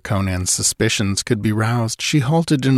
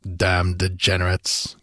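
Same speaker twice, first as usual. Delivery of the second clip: growled. Acted. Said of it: "growled Conan".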